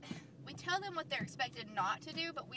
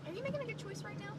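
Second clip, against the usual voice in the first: higher, fast stern question; teacher voice; 10 semitones higher, faster than usual. Acted. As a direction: check a misbehaving kid. Teacher voice scolding.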